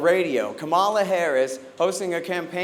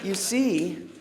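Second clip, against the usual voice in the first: mock Kamala Harris; 3 semitones lower, 3 dB quieter, much slower than usual. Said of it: "Listening to Kamala Harris explain".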